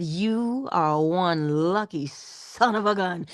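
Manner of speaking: lightly Bajan, slow and drawn out; a hint of a Barbadian lilt; Bajan phrase. In the store, to the phone, in mild Bajan lilt. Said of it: "That's what I said, it just like that".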